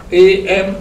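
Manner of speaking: "am" ending with lips closed on the m. Shown as a demonstration. Teacher showing learners the final m, lips shut on "am". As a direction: close your lips to finish "am". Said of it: "you have to close your lips".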